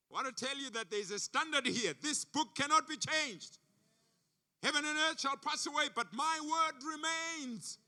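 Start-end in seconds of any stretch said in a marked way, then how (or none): 0.1-5.2 louder, driving it home on standard; emphatic preaching. Real, not acted. Preacher to congregation, louder and emphatic. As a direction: proclaim it to the congregation.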